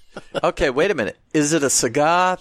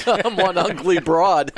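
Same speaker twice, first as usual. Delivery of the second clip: slow, slightly raised Southern belle drawl; joking Southern belle; 5 semitones higher, slower than usual. Pretend. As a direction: play a self-mocking Southern belle. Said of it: "He's a Southern belle".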